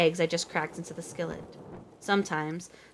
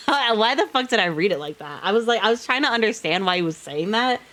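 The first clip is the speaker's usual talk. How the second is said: laughing; 4 semitones higher, 5 dB louder than usual. Real, not acted. Laughing at own misreading.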